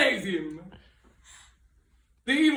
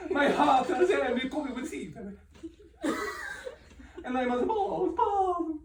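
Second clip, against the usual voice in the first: acted grief; 2 semitones higher, 6 dB quieter than usual. Antony overcome by grief.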